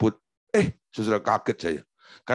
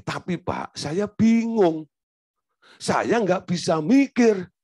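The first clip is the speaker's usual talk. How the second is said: confused wife; 6 semitones higher, slower than usual. Retold or imitated. Wife voiced in story, confused.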